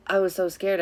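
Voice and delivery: ordinary talk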